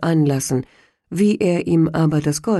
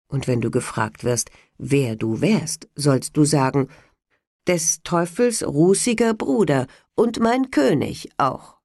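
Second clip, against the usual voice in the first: devil. Acted. Devil gives Hans orders.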